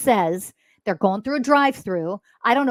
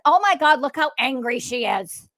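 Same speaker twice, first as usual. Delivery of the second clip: lightly put-on gasp of judgment, higher at first; mock accusing onlooker; 4 semitones higher than usual. Mocking people who call her emotional, lightly hammed-up shock. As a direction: imitate someone projecting anger onto you. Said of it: "people calling you emotional and projecting".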